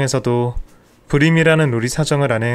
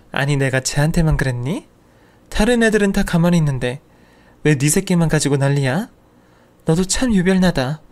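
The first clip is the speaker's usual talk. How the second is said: indignant aunt; 2 semitones higher than usual. Acted. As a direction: bristle back like an offended old aunt. Aunt snaps back at nephew.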